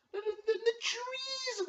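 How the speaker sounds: high, slow drawn-out announcer cry; ring announcer call. Acted. Commissioner hyping a team to the league. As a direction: stretch it out like a fight intro. Announcing players, hype intro.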